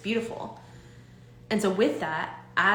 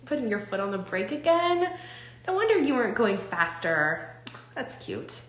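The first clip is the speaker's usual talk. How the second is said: playful self-talk. Shown as a demonstration. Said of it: "if we just talk to ourselves like this".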